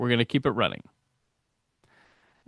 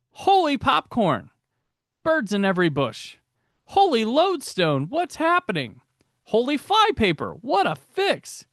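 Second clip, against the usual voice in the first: light imitation of Robin, higher and excited; Robin catchphrases; 8 semitones higher than usual. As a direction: toss off the exclamations like an eager young sidekick. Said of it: "that leads us into Robinisms".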